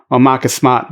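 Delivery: Boston accent, Marcus Smart as Mahcus Smaht; Boston accent dropping the r in Smart. Shown as a demonstration. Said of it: "My Boston accent didn't really show".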